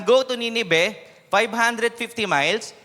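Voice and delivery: preacher booming the journey distances; loud preaching voice. Shown as a demonstration. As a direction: project it to the back of the room so sleepers wake. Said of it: "Medyo lalakas ako yung boses ko".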